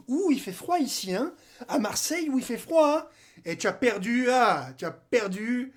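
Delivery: sing-song mocking of the losers; gloating taunt. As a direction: rub it in with a teasing lilt. Taunting the Lyon fans.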